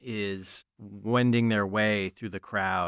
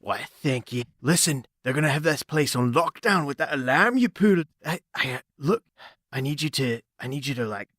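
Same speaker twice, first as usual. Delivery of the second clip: higher, urgent femme fatale; mysterious woman voice; 5 semitones higher than usual. Acted. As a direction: slick spy woman. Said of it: "And she's like".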